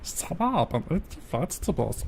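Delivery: Stitch voice. Pretend. Lightly voiced Stitch scolding about vegetables. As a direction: mangle the words like Stitch. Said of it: "Now it's a hybrid Stitch".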